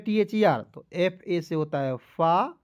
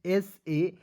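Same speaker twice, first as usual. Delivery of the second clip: slow spelling out; much slower than usual. Shown as a demonstration. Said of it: "ई है तो ए के लिए सेज".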